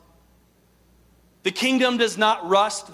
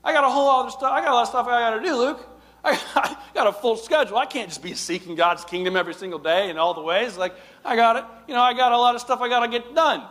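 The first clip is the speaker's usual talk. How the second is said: mock harried churchgoer, fast and pushy; busy complainer; 4 semitones higher, faster than usual. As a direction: play the too-busy believer brushing God off.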